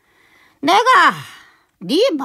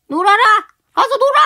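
tearful shout; 7 semitones higher, 5 dB louder, much faster than usual. Acted. Master scolds servant.

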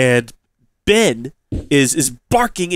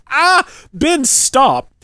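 much higher, louder panicked yell; 11 semitones higher, 5 dB louder, much slower than usual. Retold or imitated. Owner yells at dog shaking a venomous snake, panicked.

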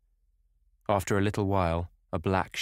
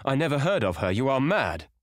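high, panicked protest; desperate, frightened outburst; stammered denial; 7 semitones higher, 4 dB louder than usual. A narrator's reading. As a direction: deny it frantically, pitch raised. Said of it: "he stammered".

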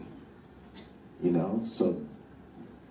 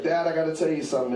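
imitated nervous confession; 8 semitones higher, much faster than usual. Confessing to dad, acted in story.

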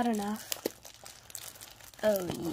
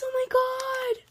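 high, slow, breathless whisper of awe; awed gasping whisper; excited whisper; 12 semitones higher, 4 dB louder, slower than usual. Real, not acted. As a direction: whisper it like you can't believe it. Sees her dream toy.

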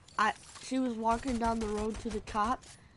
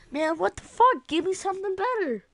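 mocking teammate; 9 semitones higher, 5 dB louder than usual. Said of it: "his teammates is like".

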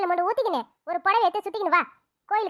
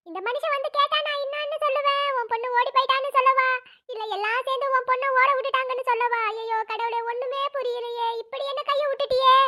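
crying lament; 4 semitones higher than usual. Acted. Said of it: "இப்ப எதுக்கு அழுவுற மாதிரி நடிக்கிறீங்க?".

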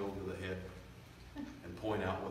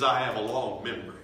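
loud memory line; 9 dB louder than usual. Acted. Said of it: "you want to hear him say".

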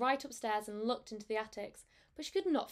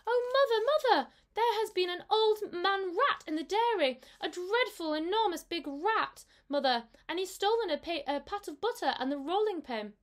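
high, loud panicky kitten, calming toward the end; frightened kitten; 7 semitones higher, 4 dB louder than usual. A narrator's reading. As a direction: tumble it out like a scared kitten. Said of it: "said Mittens".

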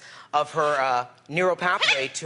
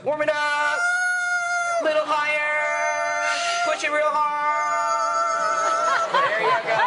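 coaching shout; 3 dB louder than usual. Real, not acted. Coaching parrot's voice warm-up.

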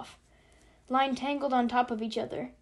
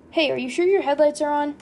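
loud, higher anxious call; 4 semitones higher, 9 dB louder than usual. A narrator's reading. Back-seat passenger to the driver, calling out. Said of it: "Nately called out".

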